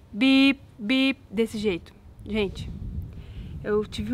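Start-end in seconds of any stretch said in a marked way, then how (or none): 0.1-1.2 imitated beeping. Telling viewers about the alarm, a mock beep beep. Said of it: "faz um barulho tipo bip".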